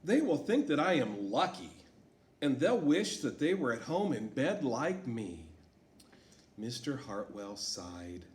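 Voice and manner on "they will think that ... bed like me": put-on girl refusing the new school, upset. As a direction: whine it out as a kid who hates change. Teacher voices Sarah in story.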